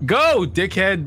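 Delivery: hint of a bratty kid heckling; imagined little girl. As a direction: lightly mimic a road-raging child. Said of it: "if she was like".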